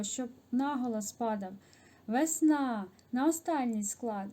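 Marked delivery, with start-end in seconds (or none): 2.1-4.3 "Весна" with the stress on the final "на"; stress on last syllable. Shown as a demonstration. Teacher showing pupils where the stress falls in "Весна", stressing the last syllable. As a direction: lean on the end of "Весна". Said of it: "бачите, падає наголос".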